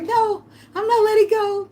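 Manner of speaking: high, slow, laugh-crying no; laughing crying plea. Retold or imitated. On his leg, slow high laugh-cry refusal. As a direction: wail it while laughing. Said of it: "I was on that leg like".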